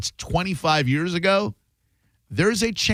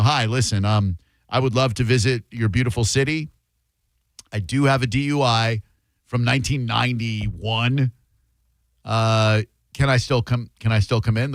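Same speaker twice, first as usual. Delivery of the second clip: polite caller; 4 semitones lower than usual. Pretend. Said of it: "call them and go".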